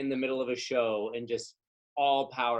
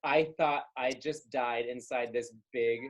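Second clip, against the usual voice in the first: laughing through a quote; 3 semitones lower than usual. Retold or imitated. Retelling a friend's funny line.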